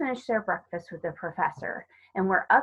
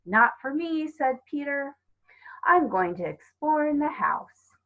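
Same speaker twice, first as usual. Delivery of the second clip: put-on eager boy's voice; 6 semitones higher than usual. A narrator's reading. Peter eager to explore.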